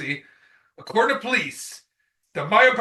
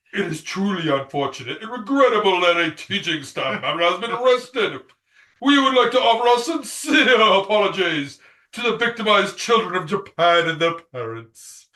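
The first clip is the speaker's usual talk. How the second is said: official board statement. Acted. Reads board's stock apology aloud.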